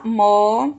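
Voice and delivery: MOTORISTA as loud MO... TO... RIS... TA; syllable by syllable. Shown as a demonstration. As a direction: sound out MOTORISTA with a pause after each syllable. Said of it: "no final da sílaba ris".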